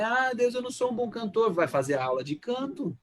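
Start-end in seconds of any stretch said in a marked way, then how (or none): 0.0-1.5 raised-pitch plea to God; lightly acted lament, pitched up; mock complaint. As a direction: mimic someone bemoaning a lack of talent. Mimics someone complaining to God.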